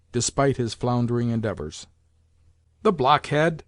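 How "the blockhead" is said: a touch of scorn on blockhead; scornful exclamation. Acted. Grandmother mildly scorning the landlord as a blockhead. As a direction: toss off the insult with mild contempt. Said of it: "exclaimed the grandmother".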